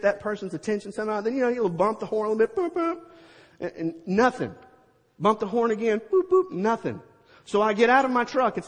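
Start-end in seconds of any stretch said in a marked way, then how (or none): 2.6-3.0 light high-pitched boop boop like a car horn; mimicked horn, gentle; horn beeps. Imitating the truck horn. 6.0-6.5 high-pitched boop boop, a bit louder, like a car horn; mimicked horn, more insistent; louder horn beeps. Honking the horn again.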